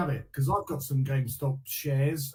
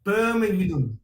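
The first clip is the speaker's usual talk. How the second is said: Brummie way of saying Birmingham; Brummie accent; 4 semitones higher, 4 dB louder, slower than usual. Shown as a demonstration. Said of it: "what's the one that they all have in Peaky Blinders".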